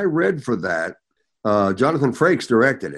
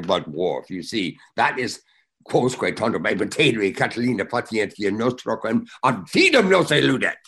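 reciting Latin in audition. Retold or imitated. Actor retelling his Latin audition to Worf, lightly declaimed. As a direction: declaim the Latin oration as a half-remembered audition. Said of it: "And so I went right into it".

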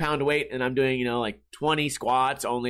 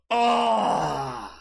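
put-on strained old man groan; aching groan sinking into a chair; sitting-down groan; 3 semitones higher than usual. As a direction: let out a sore groan as you sit. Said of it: "And when I'd sit down".

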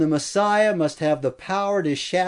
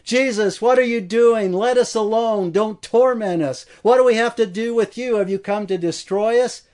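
higher, pleading demon in torment; anguished cry; 5 semitones higher than usual. Acted. Demon facing Jesus, crying out in anguish. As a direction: beg as a frightened spirit. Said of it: "it cried out in anguish".

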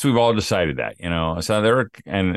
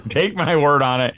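laughing verdict; 6 semitones higher than usual. Real, not acted. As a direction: tease him through laughter.

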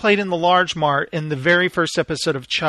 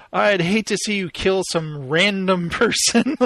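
mock-sincere, couldn't-care-less sarcasm with a chuckle; Tommy's sarcasm. Host quoting a villain's fake concern, sarcastic. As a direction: imitate a sarcastic villain, amused. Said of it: "his sarcasm".

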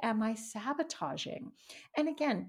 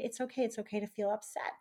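self-soothing. Shown as a demonstration. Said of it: "give yourself a hug and say".

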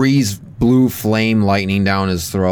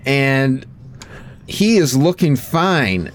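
announcer; 3 semitones higher than usual. Pretend. Mock wrestling commentary.

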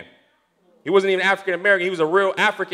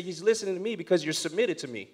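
voice of God; 9 dB quieter than usual. Retold or imitated. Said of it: "He said".

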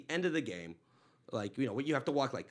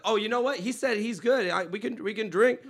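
excited tipsy offer; 9 semitones higher, 4 dB louder than usual. Retold or imitated. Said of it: "I'm like".

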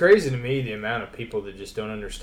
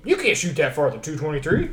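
higher-pitched doubting protest; mock incredulity; 4 semitones higher than usual. Listeners doubting his eighteen-hundred-yard story, incredulous. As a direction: imitate a disbelieving listener.

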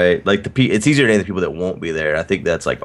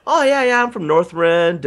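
mock casual boast; 9 semitones higher, slower than usual. Retells friends' put-on claim.

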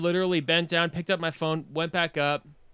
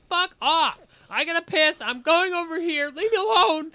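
high, louder retold outburst; annoyed retort; 12 semitones higher, 3 dB louder than usual. Drunk guy telling his companion to leave him alone, annoyed retort. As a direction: shove them off with a high-pitched protest.

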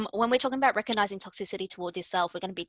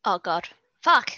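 frustrated outburst; 9 semitones higher, 13 dB louder than usual. Real, not acted. Lost in own notes.

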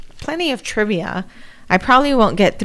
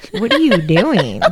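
laughing disbelief. Retold or imitated. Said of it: "And I'm like".

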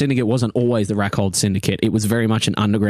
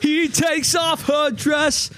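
sultry high voice; much slower than usual. Acted. GM narrating a steamy scene.

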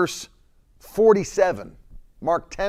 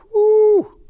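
a very high, loud whistle-like whew; overwhelmed whew; amazed whew; 9 dB louder than usual. Real, not acted. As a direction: let the awe burst out. Preacher overwhelmed by the moment.

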